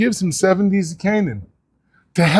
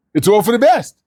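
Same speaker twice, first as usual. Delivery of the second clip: pious platitude; 4 semitones higher, 3 dB louder, faster than usual. Retold or imitated. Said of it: "We're supposed to say that".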